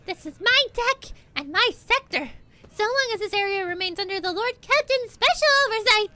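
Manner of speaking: high, loud defiant soldier voice; defiant lieutenant. Acted.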